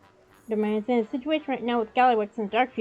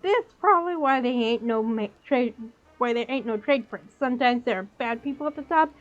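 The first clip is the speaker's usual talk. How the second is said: put-on goblin with a New York accent; fast-talking New York goblin dealer. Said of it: "Trying to do the New York accent".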